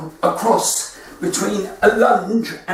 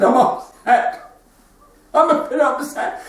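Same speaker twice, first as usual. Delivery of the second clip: put-on high-pitched comic weepy old man; mock crying; 6 semitones higher than usual. Upset old man answering a concerned jogger, mock crying.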